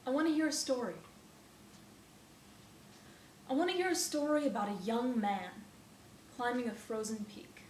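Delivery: measured storytelling with lifted openings and falling phrase ends; dramatic monologue recital. Acted. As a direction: recite it like a wistful wish for stories. Performs a second, poetic monologue.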